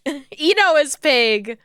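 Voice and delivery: slow and giggling at her own mistake; amused, drawn-out self-correction; laughing, slow. Real, not acted. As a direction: laugh it out slowly, sheepish. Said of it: "I'm getting them all wrong".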